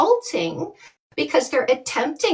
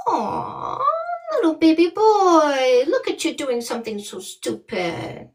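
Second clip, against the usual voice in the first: mock cooing; 2 semitones higher than usual. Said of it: "we're just supposed to go".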